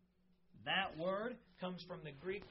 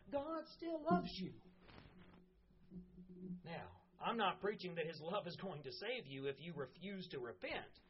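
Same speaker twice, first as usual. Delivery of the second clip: earnest preaching to the congregation; sermon delivery; 3 semitones higher than usual. Real, not acted. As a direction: preach it with conviction.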